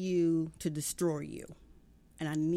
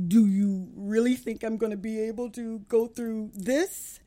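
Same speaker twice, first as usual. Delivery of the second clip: incredulous inner voice; 4 semitones higher, 7 dB louder than usual. Retold or imitated. Voicing her own doubting inner self.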